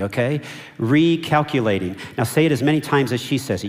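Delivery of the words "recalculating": sat-nav voice. Shown as a demonstration. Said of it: "Just say that with me".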